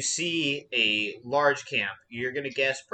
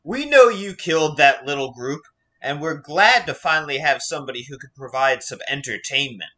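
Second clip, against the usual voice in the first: loud, mocking chieftain taunt; bandit leader; 6 dB louder than usual. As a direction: gloat like a showman. Bandit leader speaks to heroes.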